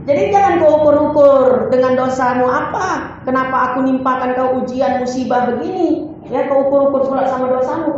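a hint of a stern divine voice; God's stern reply. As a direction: scold the complainer as the Lord.

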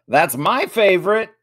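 loud, high-pitched yell; high, forceful burst of enthusiasm; excited yell. A narrator's reading. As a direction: yell it out eagerly. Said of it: "yelled Jack".

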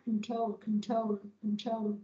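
"control" as kun-TROHL, ending in L; final L sound. Shown as a demonstration. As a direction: repeat "control" slowly with stress on TROL. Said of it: "chứ không phải là control đâu".

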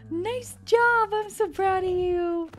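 high, loud proud cheering; loud, high-pitched congratulating; thrilled praise. Real, not acted. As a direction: cheer on a pet with big delight. Praising the pet after fight.

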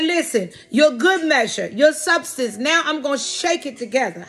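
preacher caught up in the revelation; rising preacher fervor. Acted. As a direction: pitch climbs as the word builds. Preaching God's words, building.

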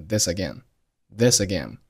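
"this again" joined as one word; linked speech. Shown as a demonstration. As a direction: carry the s of "this" into "again". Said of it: "this和again连读成了this again".

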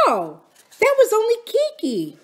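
high, lightly amused reassurance; beginning to smile. A narrator's reading. Aunt Polly amused at her husband's troubles, smiling. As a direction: brush it off with a smile. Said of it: "beginning to smile".

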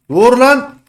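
loud high yell; panicked shout. Real, not acted. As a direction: cry out to stop the attacker. Panicked shouting while attacked. (panikle bağırış)

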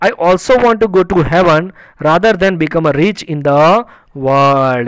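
slow, drawn-out story reading for learners; slow read-aloud. Acted. Reads story line aloud to learners. (ધીમે ધીમે વાર્તાનું પઠન)

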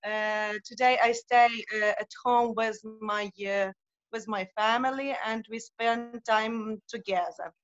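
non-native English with a Ukrainian accent; hesitant Ukrainian-accented English. Real, not acted. Uh, I'm from Ukraine.

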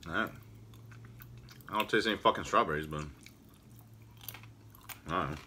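talking while chewing; eating a chocolate truffle; mouth full of chocolate. Real, not acted. Seen 2: bites truffle at 0.1-1.1, then talks holding it near mouth.

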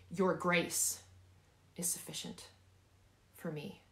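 emphatic "grace", hushed ending; stress on GRACE. Shown as a demonstration. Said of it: "I want you to emphasize each word".

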